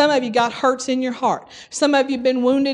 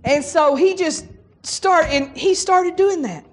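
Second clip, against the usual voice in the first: ordinary talk, nothing marked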